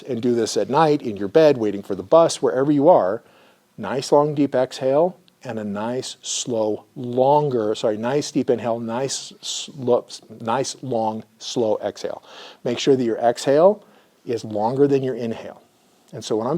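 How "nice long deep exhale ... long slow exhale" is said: soft, slow soothing voice; slow calming guidance. Shown as a demonstration. Therapist guiding clients to breathe: slow and soothing. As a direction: coax them into a long exhale. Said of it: "I'd like you to practice".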